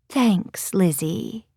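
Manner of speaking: soft grateful hush; whispered thanks. Acted. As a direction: breathe a shy thanks. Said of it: "she whispered".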